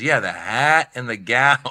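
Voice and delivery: slow, drawn-out club-owner impression; lightly put-on voice, words lingered over; Mitzi. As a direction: stretch it out like the guru boss. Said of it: "that's how she talks".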